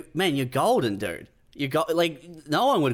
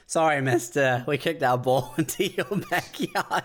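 put-on sheepish kid; 3 semitones higher than usual. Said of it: "adult equivalent of going".

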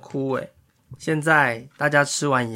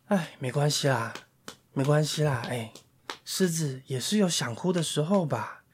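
soft reassuring; 6 dB quieter than usual. Acted. Animals comforting lion.

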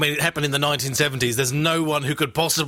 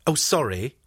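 aggressive sorry. Retold or imitated. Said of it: "we'd say sorry, but it would be very aggressive".

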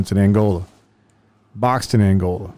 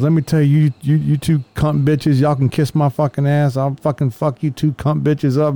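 higher cursing rant, slowing on the insults; mock drunk rant; 4 semitones higher than usual. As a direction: spit the insults like an angry drunk. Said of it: "He goes".

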